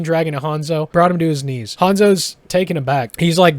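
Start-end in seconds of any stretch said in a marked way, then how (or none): none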